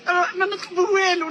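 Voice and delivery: تبكي بحرقة وغضب; wailing plea through tears; angry crying. Real, not acted. Grieving mother pleads to president. (بكاء وغضب)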